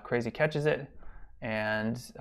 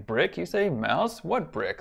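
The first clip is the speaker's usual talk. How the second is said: "Brick, you say?" pitched up, "Mouse?" set apart, WHAT hit high; emphatic questioning; 6 semitones higher, slower than usual. Shown as a demonstration. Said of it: "it emphasizes a way of".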